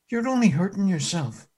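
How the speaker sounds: soft, gentle rebuke: "You're only hurting yourself"; compassionate. Acted. The Lord softly warning Saul, tender and compassionate. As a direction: say it tenderly, with care. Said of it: "compassion that's in the master's voice".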